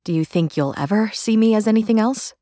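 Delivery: high sister voice, faintly hurt; wounded little sister, high-voiced; tendril of hurt. A narrator's reading. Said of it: "There was a tendril of hurt in her tone".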